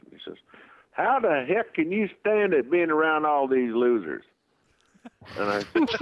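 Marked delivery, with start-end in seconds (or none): 0.9-4.2 higher, mock-disgusted young fan; a hint of a dismissive young guy; scoffing fan. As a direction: fan in the bar scoffing at other fans. Fan scoffing at other fans.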